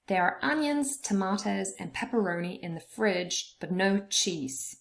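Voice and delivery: "onions", "tomatoes", "pepperoni", "fridge", "no cheese" stressed; weight on the food words and "no", the rest light; stress on content words. Shown as a demonstration. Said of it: "the words that are stressed".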